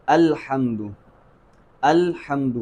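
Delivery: "الحمد" with a distinct glottal onset on the first a; careful model "الحمد", opening vowel fully sounded; clear hamza. Shown as a demonstration. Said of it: "خوب واضح رکھنا ہے".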